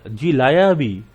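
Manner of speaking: polite reply to a parent. Shown as a demonstration. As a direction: answer a parent respectfully. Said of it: "ये tone एक अलग है".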